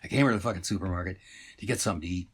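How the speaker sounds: fast, blurted frustrated rush; the shopper blurts it out fast in mild frustration; sudden anger. Acted. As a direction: get it all out in one go. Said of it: "He's just all of a sudden angry".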